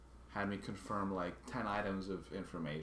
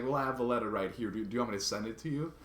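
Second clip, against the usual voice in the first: annoyed retort; 3 semitones higher, 5 dB louder, faster than usual. Retold or imitated. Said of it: "I was annoyed".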